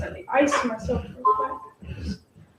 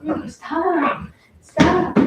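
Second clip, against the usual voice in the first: louder, higher stop to the dog; a sharp raised stop at the pushy dog; firm scold; 5 semitones higher, 4 dB louder, much slower than usual. Real, not acted. Shooing the dog away.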